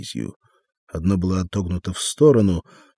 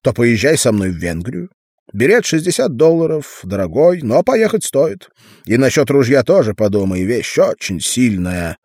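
lightly thin tenor, a bit louder; 4 semitones higher, 7 dB louder than usual. A narrator's reading. Sam rambling to Arnold about his deals, light thin tenor. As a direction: chatter on in a slight tenor. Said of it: "тонким тенорком говорил Арнольду Сэм".

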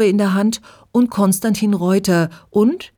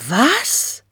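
höher, ungläubig aufgerufen; überraschter Ausruf; 7 semitones higher than usual. A narrator's reading. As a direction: fassungslos nachfragen. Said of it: "rufen ein paar der Mädchen". (überraschter Ausruf, höher)

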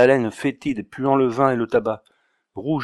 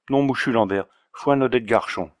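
put-on Auvergnat accent. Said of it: "avec son aimable accent".

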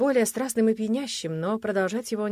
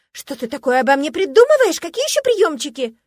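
высоко и громко, наигранно; играй возмущение напоказ; оскорблённая невинность; 8 semitones higher, 12 dB louder than usual. Acted. Жена разыгрывает оскорблённую невинность. (громкое наигранное возмущение)

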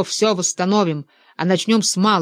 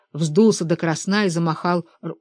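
usual speaking voice

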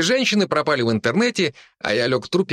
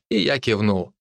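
usual speaking voice

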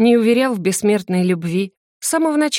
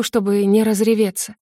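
ordinary delivery, nothing marked

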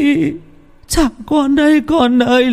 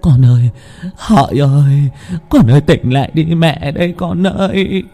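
anguished calling; 7 semitones higher than usual. A narrator's reading. Mother over wounded son.

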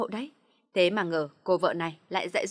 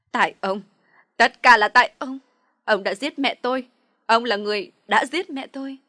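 very loud, high accusing shout; hateful yell; 3 semitones higher, 11 dB louder than usual. A narrator's reading. Daughter screaming at her father, full of hatred. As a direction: scream the blame at him. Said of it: "gào lên bằng tất cả sự căm giận".

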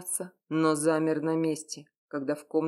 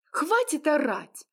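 much higher, louder, a woman snapping back; furious outburst; 10 semitones higher, 4 dB louder than usual. Acted. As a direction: lose her temper at him. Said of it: "психанула Яра". (сорвалась на крик)

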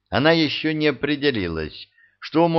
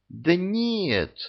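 a much higher, flustered "no!"; flustered denial; 9 semitones higher than usual. A narrator's reading. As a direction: brush it off, caught out. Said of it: "смутилась старушка".

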